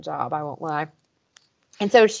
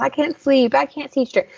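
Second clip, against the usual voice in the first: higher-pitched mock lovesick; pitched-up, playfully lovey; lovey-dovey, gaga; 6 semitones higher than usual. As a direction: imitate someone gooey with love. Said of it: "lovey, goo goo gaga".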